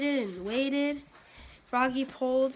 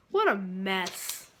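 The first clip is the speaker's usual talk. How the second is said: cried father; 4 semitones lower, slower than usual. Acted. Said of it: "cried his father".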